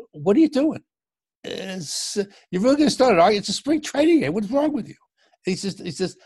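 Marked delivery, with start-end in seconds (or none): 0.1-4.9 exasperated umpire. Retold or imitated. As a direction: scold him like a fed-up umpire. Umpire scolds manager mid-argument.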